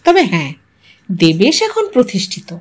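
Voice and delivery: ordinary delivery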